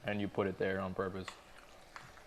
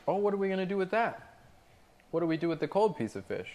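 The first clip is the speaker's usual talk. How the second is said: mocking customer; 8 semitones higher, faster than usual.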